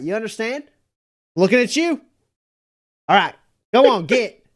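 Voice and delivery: addressing a crowd. Acted. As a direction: call out to the townsfolk, take charge. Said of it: "walks over to the crowd and is like".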